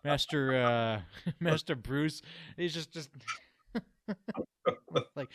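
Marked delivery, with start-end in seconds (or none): 0.0-2.2 put-on British accent. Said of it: "in his British accent".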